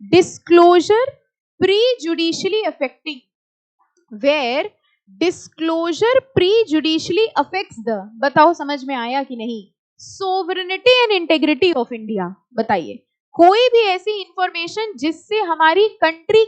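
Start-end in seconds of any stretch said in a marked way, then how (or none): 0.0-8.0 slow, deliberate read of the text; slow reading aloud. Shown as a demonstration. Teacher reading the act aloud slowly. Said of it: "reading the text aloud". 10.0-12.3 slow, deliberate read of the text; slow reading aloud. Shown as a demonstration. Teacher reading the act aloud slowly. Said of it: "reading the text aloud".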